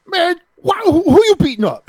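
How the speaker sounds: high, loud teasing stranger; mock heckler. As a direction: tease them like a street guy. Stranger in line heckling them.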